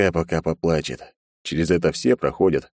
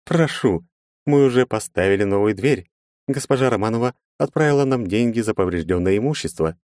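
a hint of a higher polite girl; lightly voiced receptionist; 5 semitones higher than usual. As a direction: welcome the guest politely.

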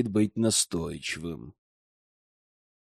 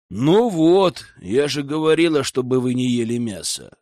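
sympathetic. Acted. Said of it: "раздался рядом сочувственный голос".

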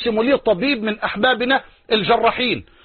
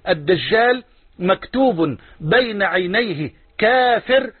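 slow, word-by-word quotation; measured hadith recitation; 3 semitones lower, slower than usual. Acted. Preacher repeats the Prophet's saying for listeners, slow measured recitation. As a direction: draw the words out deliberately.

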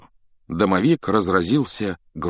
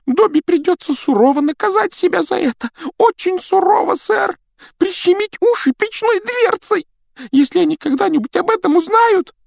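a small timid house elf; christmas elf; 7 dB louder than usual. Acted. Домовик Добби говорит. (писклявый голос эльфа)

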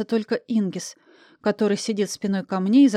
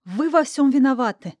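angry blame; 4 semitones higher than usual. Acted. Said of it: "зло ткнула в них пальцем".

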